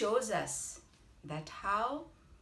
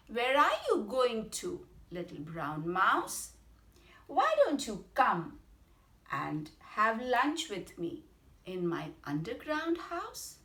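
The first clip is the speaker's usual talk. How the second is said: the fox's sly, coaxing invitation, a touch higher and louder at first; 3 semitones higher, 4 dB louder than usual. Acted. Fox slyly invites mouse to lunch, lightly voiced sly fox. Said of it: "So it very slyly said".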